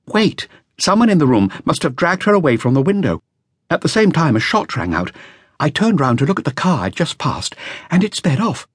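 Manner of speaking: put-on a nervous young witness reporting to police; a hint of an anxious young musician; young flautist. Flautist describes the shot.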